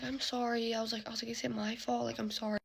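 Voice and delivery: hushed, guilty-sounding retelling; soft apology. Retold or imitated. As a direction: imitate a gentle, sorry check-in. Apologising to bawling cousin.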